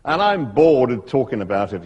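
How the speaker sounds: put-on amateur Australian accent, a touch of boredom; lightly voiced Australian expert, fed up; Struan Sutherland, Australian accent. Snake expert to visiting writers, in a rough Australian accent. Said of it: "my Australian accent isn't very good".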